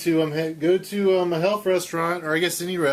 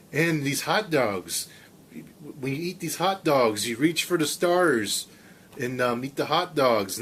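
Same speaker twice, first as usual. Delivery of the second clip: Casey Kasem. Acted. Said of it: "I'm gonna try a Casey Kasem impersonation".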